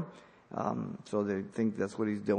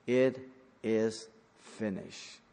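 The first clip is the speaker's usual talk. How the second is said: cry of victory; slower than usual. Acted. Preacher voicing Jesus's last words, slow and triumphant. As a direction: let the words land slowly as triumph. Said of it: "It's a cry of victory".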